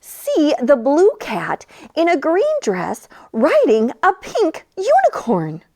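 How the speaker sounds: slow, drawn-out picture-book reading; reading to children. A narrator's reading. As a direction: read each word slowly for little ones. Narration to children.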